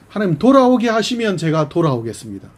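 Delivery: 돌아오게 pushed high and loud, then falling; a desperate plea voiced for Ephraim; pleading Ephraim. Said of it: "에브라임이 뭐라고 표현하죠".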